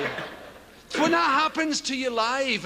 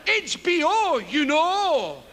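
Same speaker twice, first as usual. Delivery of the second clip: higher, airy "H B O, you know"; mock knowing; 3 semitones higher, slower than usual. Comedian quoting himself, knowing H B O. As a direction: toss it off like an expert. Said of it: "he says".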